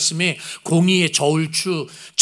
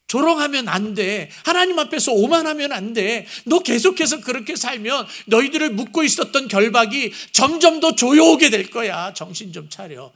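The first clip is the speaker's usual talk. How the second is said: God's appeal; 4 semitones higher than usual. Retold or imitated. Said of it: "이런 마음이에요".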